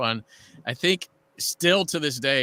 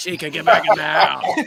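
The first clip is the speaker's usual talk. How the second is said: very loud, hard-living mother voice hollering; 4 semitones higher, 8 dB louder than usual. Speaker imagines chica's mother calling her back inside, imitating chica's mom. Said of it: "her mom smokes three packs a day. She's like".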